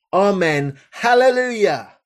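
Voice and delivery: elders' joyful cry; praising cry. Acted. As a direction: worship with full voice.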